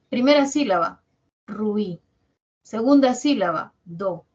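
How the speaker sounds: ruí and do said apart; teacher splitting ruido for the class; split syllables. Shown as a demonstration. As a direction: separate ruido into two beats. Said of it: "Debes escribirlo en dos sílabas".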